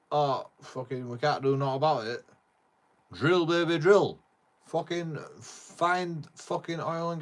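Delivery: loud, ranting mock politician; mocking a gung-ho politician. Mocking a politician who wants oil drilled at home, loud and ranting. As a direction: bellow it like a blustering leader demanding drilling. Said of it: "he goes".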